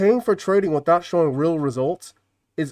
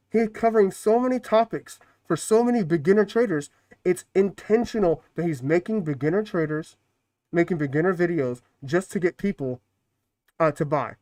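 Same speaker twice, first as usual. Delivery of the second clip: muffled through a mask. Real, not acted. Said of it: "Making your voice muffled".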